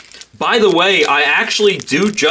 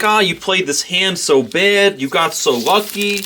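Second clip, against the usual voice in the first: teasing, slowed mock drunk; mock razzing drunk; 5 semitones higher, slower than usual. A drunk player razzing her at the table, lightly voiced. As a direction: needle her like a tipsy heckler. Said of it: "razz her a little bit".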